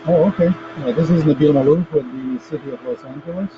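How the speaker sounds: muffled voice through a headset; muffled, like a hand over the mouth. Real, not acted. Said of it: "You're a, a bit muffled".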